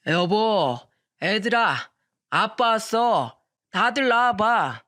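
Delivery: put-on slow, slurred drunk calling out; loud slow drunk husband waking the house; drunken loud calling. Husband home drunk at dawn, calling out loud. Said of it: "큰 소리를 치면서 말하더군요".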